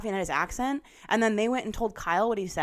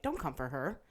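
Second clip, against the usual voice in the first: Don't come for her, murmured much softer with a rising end; soft protective plea; 5 semitones lower, 9 dB quieter than usual. Retold or imitated. Defending her to the TV, softly pleading. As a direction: plead it gently under your breath.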